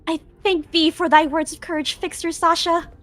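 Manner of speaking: hammy stage actor. Acted. Don Quixote archaic knightly speech.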